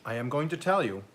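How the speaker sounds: talking through a bite of pie; words round a mouthful; mouth full. Real, not acted. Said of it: "pardon me for talking with my mouth full".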